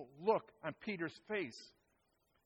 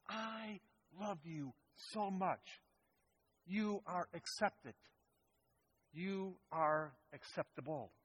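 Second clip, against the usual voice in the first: tender; 4 dB quieter, slower than usual. Acted. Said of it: "in the most dynamic way possible".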